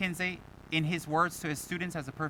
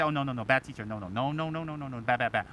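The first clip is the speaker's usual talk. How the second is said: low, rattled-off tutting refusal; mock disapproval; 4 semitones lower, 3 dB quieter than usual. People in Malaysia judging the teacher, mock disapproval. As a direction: imitate a scandalised chorus of no's. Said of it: "You tell anybody in Malaysia, they say".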